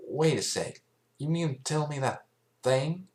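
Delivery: can't believe what she hears; incredulous Applejack. A narrator's reading. Applejack questioning the fillies, incredulous.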